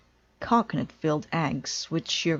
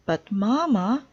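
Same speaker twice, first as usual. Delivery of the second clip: put-on a touch of a young girl's protest, a bit higher and louder; 5 semitones higher, 4 dB louder than usual. Sister interrupting Mama to tell her news, mild protest. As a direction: push back on Mama gently. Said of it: "protested sister".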